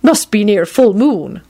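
high, slow sniffy lady; sniffy old woman. A narrator's reading. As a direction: sniff it knowingly. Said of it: "McGonagall sniffed".

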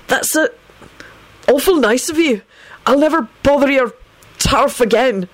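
high, hurried-to-please gratitude; fervent. A narrator's reading. Freed Benji promises the gang to stay away, fervent. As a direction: thank them fervently in a high voice. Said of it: "called out fervently".

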